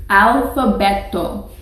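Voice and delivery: teacher modelling Alfabeto; Spanish word model. Shown as a demonstration. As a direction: model Alfabeto clearly for the class. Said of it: "You say that".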